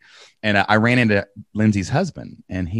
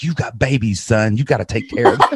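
higher, louder imitation of an upset mother; mock scolding mom; 3 semitones higher, 4 dB louder than usual. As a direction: play mom lecturing her son, half laughing. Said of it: "my mom was so mad at me".

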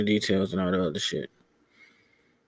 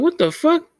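shocked outburst; 4 dB louder than usual. Retold or imitated. Retelling his shocked reply to her.

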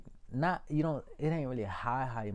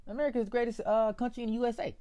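overhyped declaration; 13 semitones higher, 6 dB louder, faster than usual. Acted. Hyped declaration, high and loud.

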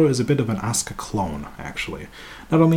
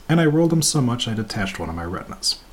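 ordinary talk, nothing marked

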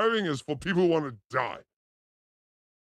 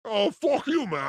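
put-on Boston accent. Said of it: "That's a Boston accent".

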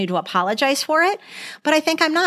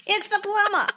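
laughing impression; 10 semitones higher than usual. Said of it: "You're good at the little impersonation".

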